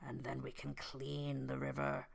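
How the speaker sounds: softly spoken, deliberate crime boss; mob boss voice. Acted. Mafia boss lays out his land scheme to Guy, soft mob boss voice. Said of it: "he sounds like this now".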